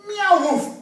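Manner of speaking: high meow into loud woof; cat-dog hybrid. Acted. Teacher voicing the silly animal, loud meow-bark. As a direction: mew and bark in one go. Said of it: "this animal says".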